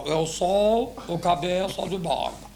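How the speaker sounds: very slow mumbled imitation; half-hearted, slurred recitation; reluctant repeat. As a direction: drag the words out reluctantly. Boss reluctantly repeats dictated phrase.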